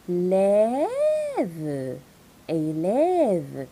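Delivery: Lève with open è, then Élève whole. Shown as a demonstration. Teacher isolating the open è in élève. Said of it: "accent grave".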